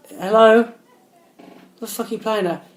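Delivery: high, slow mock confrontation; hammed-up road-rage challenge; imitated angry man. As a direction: voice an irate driver, pitched high. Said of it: "you know, he's very angry".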